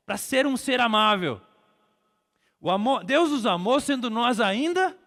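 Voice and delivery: loud, high, drawn-out preacher's cadence; impassioned pulpit proclamation; full-force preaching. Real, not acted. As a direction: build the list with rising fervour.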